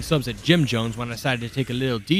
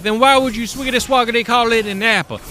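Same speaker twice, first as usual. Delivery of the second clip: much higher, louder swaggering rap-bro voice; wannabe rapper; 10 semitones higher, 5 dB louder than usual. Retold or imitated. Rapper's cousin walks up to the narrator, cocky high voice. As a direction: rhyme it out like a try-hard white rapper. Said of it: "the white equivalent of a famous rapper".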